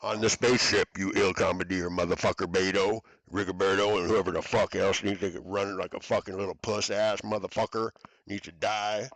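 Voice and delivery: loud enraged yelling of insults; furious shouting. Real, not acted. Cursing the people on the ship, furious loud shout. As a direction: bellow it, spitting fury. Furious rant at unseen enemies.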